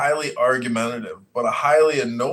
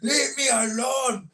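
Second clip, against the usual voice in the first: high, drawn-out angry imitation; mock angry quarrel; 8 semitones higher than usual. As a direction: mimic a threatening man in a heated row. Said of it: "And he's like".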